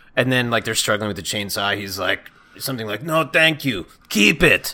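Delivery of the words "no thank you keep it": raised put-on character voice. Retelling a villain's line from a remembered show: Strong Bad voice. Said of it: "You're doing Strong Bad".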